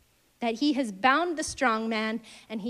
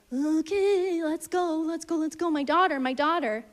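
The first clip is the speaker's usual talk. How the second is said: higher, hurried, worried father; anxious urging; 5 semitones higher than usual. Retold or imitated. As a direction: urge him on, a father who cannot wait. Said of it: "kinda like".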